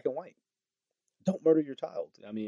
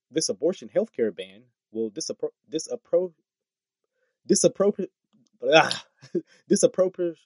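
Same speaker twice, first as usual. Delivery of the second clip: tongue-tied; 5 semitones higher, 4 dB louder than usual. Real, not acted. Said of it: "I don't know why I'm tongue-tied".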